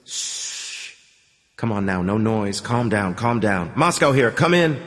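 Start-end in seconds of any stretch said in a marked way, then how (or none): 0.0-0.9 soft hissing whisper of static. Acted. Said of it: "A whisper". 3.7-4.8 radio call. Acted.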